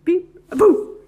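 high, loud, excited reveal; playful reveal. A narrator's reading. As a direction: build to a big playful boo. Playful surprise reveal in story.

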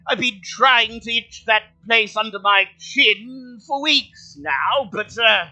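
a lonely camel finally meeting visitors, delighted; high cheerful talking camel; friendly camel. Acted. Camel voice again.

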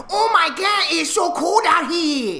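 very high, loud, hammed-up Asian accent; over-the-top shrieked Asian accent, drawn out; offensive Asian accent caricature. Shown as a demonstration. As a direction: shout it as an exaggerated mock Asian accent. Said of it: "then that's offensive".

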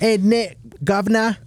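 high mock Cockney accent; put-on British accent, pitched right up. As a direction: play a joking English punter. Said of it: "Is it in an accent?".

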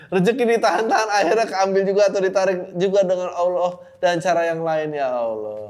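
can't get through the line without laughing; reading while laughing. Real, not acted. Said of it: "ini lucu banget".

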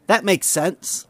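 slow, eagerly agreeing suck-up; lightly acted flattering agreement; sycophantic. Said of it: "said Ron sycophantically".

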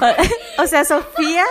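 talking with food in mouth; words around a mouthful; mouth full. Real, not acted. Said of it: "La agarré con la boca llena". (con la boca llena)

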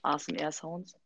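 quiet words around a sip; while sipping a drink. Real, not acted. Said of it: "ich muss kurz Usa trinken". (beim Trinken aus der Flasche)

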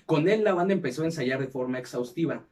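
measured documentary-style read; scripted narration. Acted. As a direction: read it out like a podcast history segment. Reads the episode script aloud.

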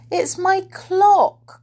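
high, loud, drawn-out delight; excited cry. A narrator's reading. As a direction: cry it out slowly, thrilled. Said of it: "cried Silky excitedly".

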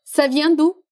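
"Ça vient d'où" climbing to the end; teacher's model question tune on "Ça vient d'où"; rising question intonation. Shown as a demonstration. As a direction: lift the pitch on "d'où". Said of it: "Presta bem atenção na entonação".

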